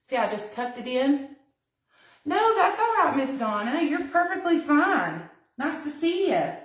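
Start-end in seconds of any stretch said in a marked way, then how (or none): 2.2-6.5 high, louder, welcoming tone; friendly reassurance. Real, not acted. Streamer to a late-arriving viewer, warmly reassuring. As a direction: reassure brightly in a raised pitch.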